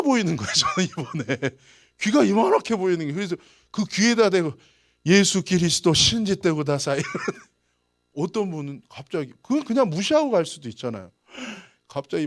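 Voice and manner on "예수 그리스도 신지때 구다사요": loud. Retold or imitated. Saying it right into their ear.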